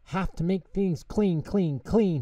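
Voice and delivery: high, busy little voice; fretting mouse. A narrator's reading. Tutter tidies his mouse hole, high fretful voice.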